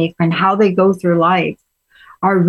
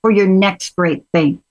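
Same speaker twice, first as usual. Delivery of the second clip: bad Southern accent; 9 semitones higher than usual. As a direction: put on a hammy Southern accent, imitating mom. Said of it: "my bad Southern accent".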